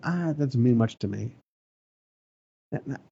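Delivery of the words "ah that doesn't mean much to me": lower, offhand brush-off; dismissive. Acted. People discounting the covenant, dismissive. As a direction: wave it away as worthless. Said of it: "They discounted his covenant".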